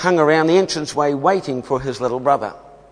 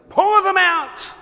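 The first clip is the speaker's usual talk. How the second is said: voice of God; slower than usual. A narrator's reading. God commands the angel.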